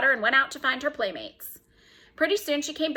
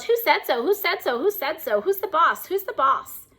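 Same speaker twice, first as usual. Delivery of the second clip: yelling parrot; 6 semitones higher than usual. Acted. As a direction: screech it like a bossy parrot. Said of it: "Penelope yelled".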